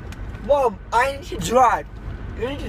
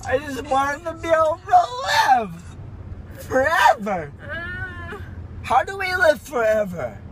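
crying; 5 semitones higher than usual. Real, not acted. Drugged teen weeping after surgery.

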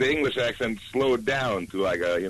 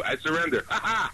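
higher mock French accent; 4 semitones higher than usual. Shown as a demonstration. Guest topping the host's demo, mock French accent. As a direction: joke French surrender with accented laugh. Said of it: "I can do one, too".

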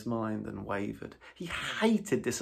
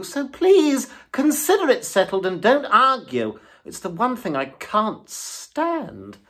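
higher, louder, coaxing plea; imploring Toad; 9 semitones higher, 12 dB louder than usual. A narrator's reading. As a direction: wheedle your friend into coming. Toad pleading with Rat.

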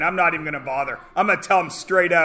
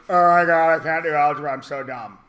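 panicking pupil; 3 semitones lower than usual. Retold or imitated. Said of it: "everybody's like".

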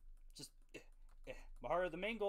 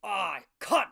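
put-on British accent; 5 semitones higher, 16 dB louder than usual. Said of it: "give me a really British thing".

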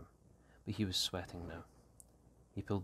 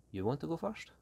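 higher, sharply rising question; surprised question; 10 semitones higher than usual. A narrator's reading. Tigo answers Danny's suspicious why, surprised. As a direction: ask it taken aback, pitch climbing.

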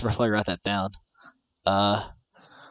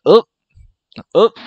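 little oop noise; 8 semitones higher, 12 dB louder than usual. Shown as a demonstration. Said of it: "I can just be like".

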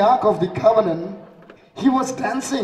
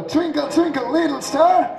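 louder; 5 semitones higher than usual. Shown as a demonstration. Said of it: "I can hear you louder".

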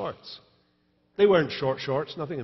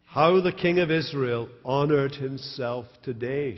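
biting sarcasm. Acted. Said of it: "she says with biting sarcasm".

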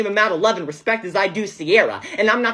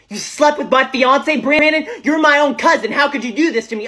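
outraged; 5 semitones higher than usual. Acted. Fiancée learns of betrayal.

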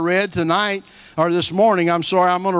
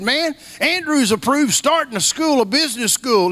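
higher mimic of an eager friend; imitating Paul; 6 semitones higher than usual. Friend pitching a new school, mimicked higher. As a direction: keep the friend's raised phone voice. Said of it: "that's how he talks".

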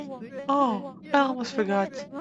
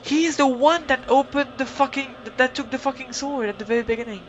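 angry outburst; 2 semitones higher, 4 dB louder than usual. Real, not acted. Player's angry realisation.

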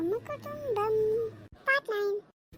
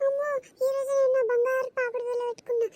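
higher, calling out that a thief came; hammed-up thief alarm; mock alarm; 3 semitones higher, faster than usual. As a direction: raise the alarm like a panicky old aunt. Auntie crying thief, calling everyone.

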